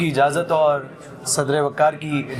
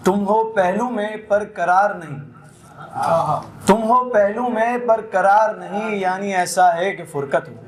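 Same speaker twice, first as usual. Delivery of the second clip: ghazal recitation; 2 semitones higher than usual. Acted. Poet reciting a ghazal to the mushaira audience, lilting recital. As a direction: savour each line for the gathering.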